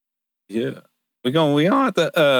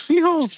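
yeehaw. Pretend. Whooping as a joke.

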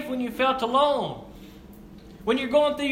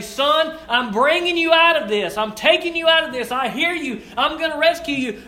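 a lightly voiced father promising rescue, a bit louder; reassuring father; 4 semitones higher, 4 dB louder than usual. Preacher imagining God telling his son he will rescue him, reassuring. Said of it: "reach down and rescue his son and say".

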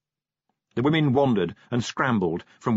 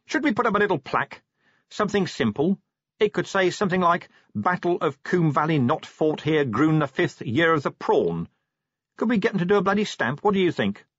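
Vimes musing grandly, voice higher and quick; expansive; 7 semitones higher than usual. A narrator's reading. Vimes musing to Carrot, expansive and higher. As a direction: spin a grand silly idea. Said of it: "said Vimes expansively".

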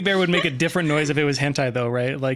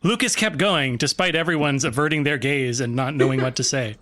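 voiceover voice. Acted. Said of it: "I'll do the voiceover voice".

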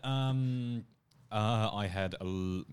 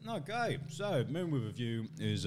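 talking through chocolate; words round a mouthful; mouth full; 4 semitones higher than usual. Real, not acted. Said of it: "I might finish this first".

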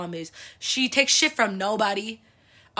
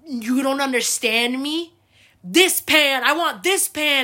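mock angry mom; 4 semitones higher, 6 dB louder, slower than usual. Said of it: "She got so mad".

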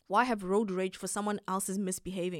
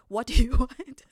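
mocking repeat, far louder with a laugh in it; indignant echo; 4 semitones higher, 11 dB louder than usual. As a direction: throw the line back, outraged and laughing. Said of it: "How can you ask me".

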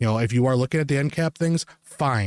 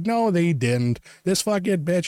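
higher-pitched imitation of an indignant man; indignant bystander; 7 semitones higher, slower than usual. Bystander contradicts her to the employees, indignant mimicry. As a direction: mimic a bystander butting in to object. Bystander objecting, voiced in story.

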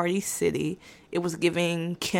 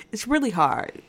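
higher, giggly confession; laughing; 3 semitones higher than usual. Real, not acted.

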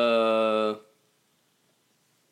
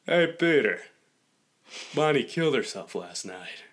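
Joe Swanson; 3 dB quieter than usual. Acted. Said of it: "you lost it at the end".

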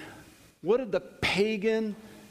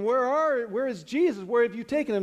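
anxious pleading; 5 semitones higher than usual. Acted. Mary searching the tomb.

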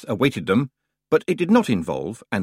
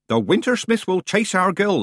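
put-on old witch warning; 10 semitones higher, 3 dB louder than usual. Nanny Ogg warns.

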